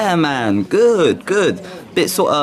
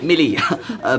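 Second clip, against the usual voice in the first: sheepish laugh over the name; embarrassed laugh; 4 semitones higher than usual. Acted. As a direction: laugh off the slip. Awkward name correction with laugh.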